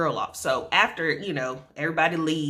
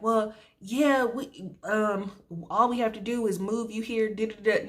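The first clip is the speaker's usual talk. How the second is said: higher, sing-song dismissive nurse voice; mock chirpy nurse; 4 semitones higher than usual. Nurse waving off a patient in labor, mock chirpy voice. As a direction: brush her off like a chirpy nurse. Nurse quoted brushing her off.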